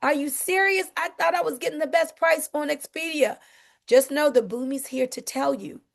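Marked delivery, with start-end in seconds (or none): 0.0-3.4 imitating a shocked, cheated customer, pitch higher; hammed-up disbelief at being overcharged; mock indignant disbelief. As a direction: play the outraged buyer who just found a cheaper price. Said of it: "you would be mad as I don't know what".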